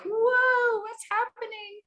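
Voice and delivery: sudden high alarmed cry; mock panicked surprise, pitched high; startled whoa. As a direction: jump at your own racing heart. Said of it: "when we're like".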